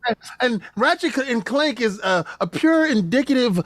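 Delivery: lightly voiced smug console fanboy; Sony fanboy voice. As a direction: brag like a proud Sony fan. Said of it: "I need the S S D in the Sony baby, uh, voice".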